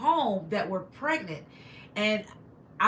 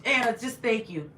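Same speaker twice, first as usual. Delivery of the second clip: holding back tears. Real, not acted. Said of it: "I don't wanna cry again".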